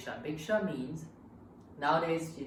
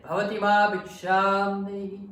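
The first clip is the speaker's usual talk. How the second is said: shouted, higher call for alms; angry monk yelling for alms; louder voice; 7 semitones higher, 12 dB louder than usual. Retold or imitated. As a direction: bellow the alms request at the house. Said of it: "this time in a louder voice".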